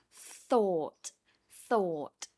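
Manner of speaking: Thought with tongue between teeth; TH sound. Shown as a demonstration. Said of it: "tongue needs to come between your teeth".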